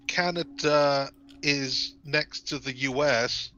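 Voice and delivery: slow, deliberate mock speech; slow imitation. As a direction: drag out each word. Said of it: "she kept saying things like".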